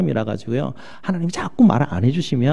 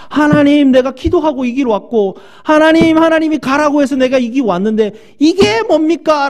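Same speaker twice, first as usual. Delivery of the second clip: high, loud aggrieved outcry; angry complaint to God; 12 semitones higher, 6 dB louder than usual. Retold or imitated. Believer complaining to God after disaster, loud angry outcry. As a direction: cry out at God as if betrayed. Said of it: "하나님 앞에 막 화가 나고 삐지게".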